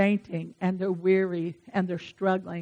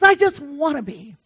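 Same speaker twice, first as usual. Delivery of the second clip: higher, louder mock yearning; imitating a friend; 5 semitones higher, 6 dB louder than usual. Churchgoing friend insisting to the preacher, imitated yearning. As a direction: replay a friend's emphatic spiritual longing. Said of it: "She says".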